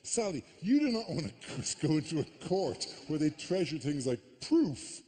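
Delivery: wag a finger at the psychic, half-joking; mock lecture to Sally. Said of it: "a point where I go".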